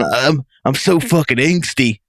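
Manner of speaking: mock-angsty, drawn-out whine; whiny teen. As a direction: imitate a whiny, angsty character, slowly. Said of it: "being this whiny fucking".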